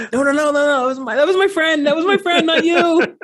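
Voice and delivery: hammed-up Hulk voice, high and loud; Hulk impression. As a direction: ham up Lou Ferrigno as the Hulk, pleading. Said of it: "an imitation of someone who's deaf".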